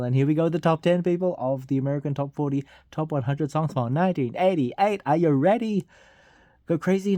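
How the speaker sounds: quick build-up, rising at the end; hyped announcer. Acted. Host rallies listeners for the top ten, excited. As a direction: hype the crowd.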